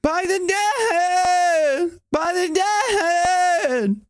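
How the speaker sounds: slow piercing high cry; high cry technique. Shown as a demonstration. Coach demonstrating the singer's high cry technique. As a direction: break into a high sung wail. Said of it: "It's a cry technique".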